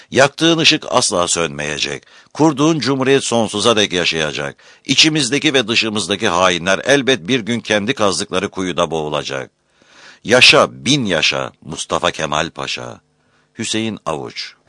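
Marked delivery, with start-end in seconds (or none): 0.1-9.5 solemn oath. Acted. Collective oath repeated. 10.2-13.0 loud ringing Yaşa, then proud fall; patriotic cheer. Acted.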